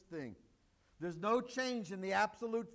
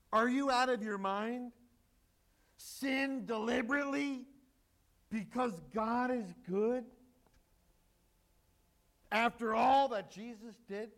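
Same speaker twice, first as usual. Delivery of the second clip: a hint of New Jersey incredulity, louder; light Jersey what-are-you-crazy disbelief; New Jersey style; 4 dB louder than usual. Preacher voicing Paul as a Jersey local, mild Jersey accent. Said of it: "They'd say in Jersey".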